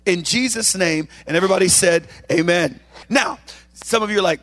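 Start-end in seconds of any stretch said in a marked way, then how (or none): 0.1-2.8 earnest prayer with a music bed. Acted. Pastor praying over the congregation, earnest prayer voice. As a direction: pray it over the church, earnest.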